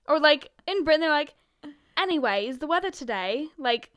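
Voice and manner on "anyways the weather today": lightly put-on British accent; a hint of posh British; bad British accent. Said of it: "Those were bad impressions".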